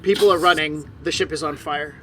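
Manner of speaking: emphatic, dramatic scene-setting; game master narration. A narrator's reading. Game master describing a dragon attack to players, dramatic narration.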